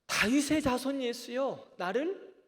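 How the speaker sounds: loud, high plea drawn out slowly; crying out. Acted. Blind Bartimaeus calls to Jesus for mercy, crying out loudly. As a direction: call out high and pleading to someone passing. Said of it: "뭐라고 소리 질러요?".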